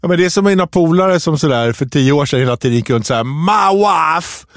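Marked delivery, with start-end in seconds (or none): 3.2-4.4 mock Borat catchphrase accent. Man recalling how his friends quoted films, Borat accent. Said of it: "Borat-repliker".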